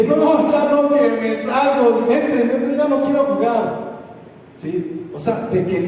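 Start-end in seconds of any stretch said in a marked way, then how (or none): 0.0-3.9 retold angry outburst.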